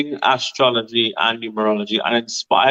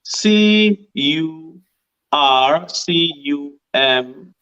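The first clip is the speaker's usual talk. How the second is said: slow spelling out; 2 semitones higher, slower than usual. Shown as a demonstration.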